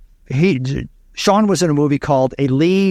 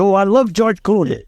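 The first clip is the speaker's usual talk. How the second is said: put-on Spanish accent; 7 semitones higher than usual. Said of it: "he has a very heavy Spanish accent".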